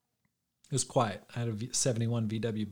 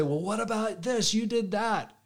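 much higher mock retort, pointing the finger back; defensive counterattack; 9 semitones higher, 3 dB louder than usual. Imitating a counterattacker snapping back at a critic, in a high mock retort. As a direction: throw the blame back at the critic. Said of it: "And you say".

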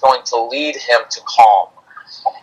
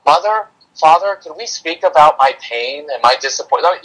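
mock-mature child. Imagined child formally addressing parents, mock-mature and polite. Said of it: "not mature enough to come home from school and say".

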